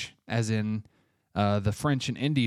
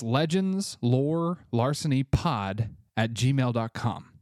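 careful second read-out for listeners; slow, even dictation; slow repeat; slower than usual. Shown as a demonstration. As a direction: repeat the address slowly again. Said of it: "All one word, no spaces".

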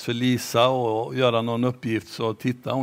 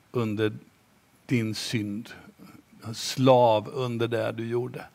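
gentle grandma; 2 semitones lower, 3 dB quieter than usual. Acted. Grandma gently tells the boy she saw everything, tender. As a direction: speak it softly and lovingly.

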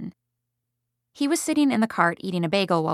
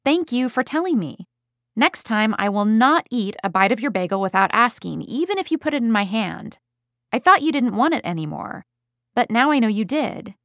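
mildly raised firm voice; loud voice. Retold or imitated. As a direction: keep the voice up but calm. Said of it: "still in a loud voice".

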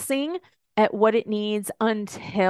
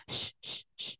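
put-on whispered shush to a baby; soft hushing to calm a newborn; 16 dB quieter than usual. Soothing a crying baby.

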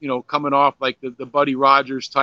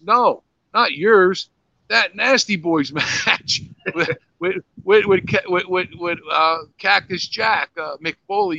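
mock kid voice; 4 semitones higher than usual. Son voiced correcting father.

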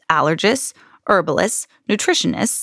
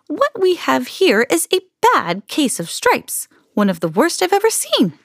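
put-on kindly old woman; 7 semitones higher than usual. A narrator's reading. Old woman diagnosing Camilla's stripes, gravely concerned.

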